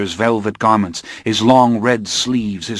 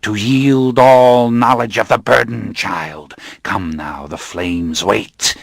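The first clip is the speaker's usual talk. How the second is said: menacing coven leader; slower than usual. Acted. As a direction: pronounce doom on the captive. Coven leader ends the rite.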